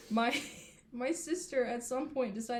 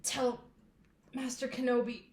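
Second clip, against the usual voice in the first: overacted death scene; 4 semitones higher than usual. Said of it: "having this super dramatic death scene".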